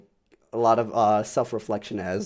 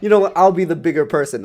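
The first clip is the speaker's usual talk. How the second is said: mock noble; 6 semitones higher, 7 dB louder than usual. Retold inner resolve.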